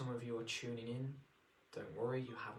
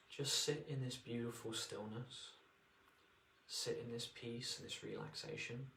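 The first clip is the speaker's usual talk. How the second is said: guided meditation. Acted. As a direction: ease them into relaxation.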